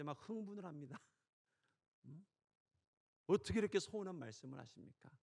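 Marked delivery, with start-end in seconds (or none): 2.1-5.1 mock protest. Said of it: "막 따져 묻습니다".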